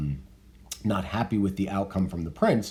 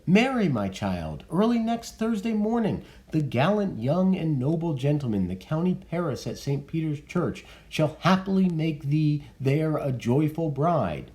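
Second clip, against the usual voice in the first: reading Lady Capulet; 8 semitones higher than usual. Acted.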